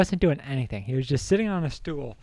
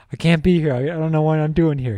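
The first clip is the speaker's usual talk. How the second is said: louder, higher mock crying; Pat Cap; 4 semitones higher, 5 dB louder than usual. Storyteller imitating crying friend who can't stay, mock upset. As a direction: imitate a friend's tearful protest. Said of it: "crying slowly as he's like".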